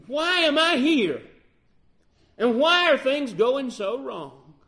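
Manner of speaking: high, loud, exasperated questioning; frustrated plea. Retold or imitated. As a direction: demand answers from God. Moses complaining to God.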